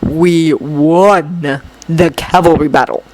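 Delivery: low, slow, dry remark; flat scornful boy. Acted. Shinso's voice in story.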